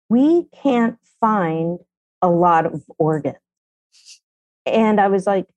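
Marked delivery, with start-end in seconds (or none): 0.1-3.4 slow grave doctor's words. Retold or imitated. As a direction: mimic the doctor's grim, measured line. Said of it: "they were like".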